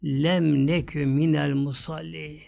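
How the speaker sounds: drawn-out Quranic chant of the verse; slow Quran recitation; slow Arabic recitation. Acted. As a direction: recite the Arabic slowly, as in prayer.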